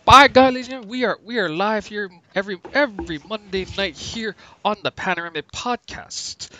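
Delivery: loud, high wrestling announcer call; Jim Ross voice. Retold or imitated. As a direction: bellow it like a ringside commentator. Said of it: "A K A Jim Ross".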